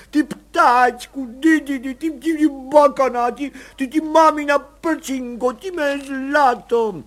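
high, very slow weeping cry; crying out in tears. A narrator's reading. Mother reunited with her baby, crying out in tears. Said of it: "křičela v pláči".

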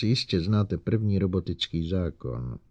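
slow sarcastic reminder. Acted. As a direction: drip sarcasm. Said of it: "v jejím hlase se ozval sarkazmus".

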